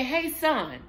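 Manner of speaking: put-on gentle, patient prompt to a child; calm parent prompt. Shown as a demonstration. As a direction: coax the kid kindly to ask. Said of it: "So you would say".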